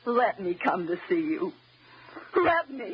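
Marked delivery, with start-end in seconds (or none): 2.3-2.9 a choked sob on the words; crying. Acted. Wife mimics his story, choking into a sob. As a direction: break down on it.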